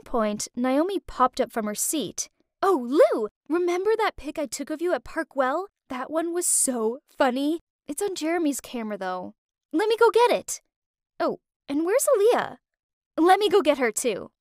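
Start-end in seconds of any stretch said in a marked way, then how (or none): 2.6-10.6 excited. Acted. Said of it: "ran off in excitement". 11.2-14.3 excited. Acted. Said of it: "ran off in excitement".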